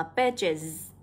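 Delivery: "pages" with a clear buzzing -iz ending; âm đuôi /iz/. Shown as a demonstration. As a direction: end "pages" on a held iz. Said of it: "âm này là âm is này". (đọc "pages" với đuôi iz ngân rõ)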